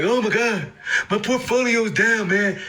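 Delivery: mock someone watching their portfolio drop; mock freaking out. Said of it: "some of y'all be like".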